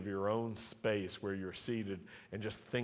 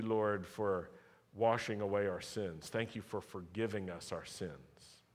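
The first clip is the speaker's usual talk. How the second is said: prayer. Acted. Closing prayer.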